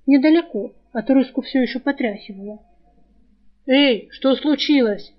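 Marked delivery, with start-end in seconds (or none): 3.7-5.1 alarmed call. Acted. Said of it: "встревоженный окрик Жара".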